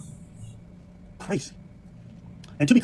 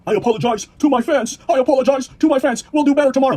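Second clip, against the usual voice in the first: mock apology; 4 semitones higher, 4 dB louder than usual. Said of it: "Apologize to the person".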